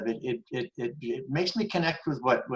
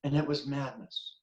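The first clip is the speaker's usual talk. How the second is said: softer, sober quote; a touch of quiet regret; calmed down; 6 dB quieter than usual. Retold or imitated. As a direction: let it drop quietly, calmed. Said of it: "And then she calmed down".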